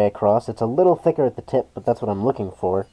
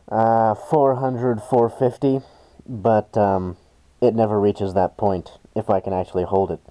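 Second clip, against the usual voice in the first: muffled behind a respirator mask. Real, not acted. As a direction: talk through a respirator, muffled. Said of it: "if you're wondering about the muffled voice, it's because I have my respirator on".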